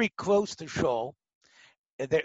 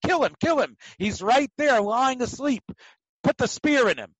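higher, urgent push to kill him; urging; 4 semitones higher than usual. Retold or imitated. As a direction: egg him on, strike now. Friends urge David to kill.

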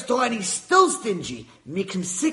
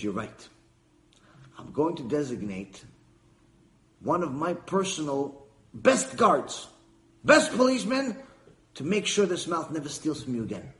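wise judge; 4 semitones lower than usual. Acted. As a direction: calmly pronounce the ruling. Judge answering the man.

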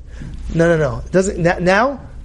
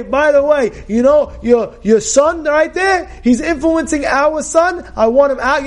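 firm demand; 6 semitones higher, slower than usual. Retold or imitated. Sarai tells Abraham to remove son.

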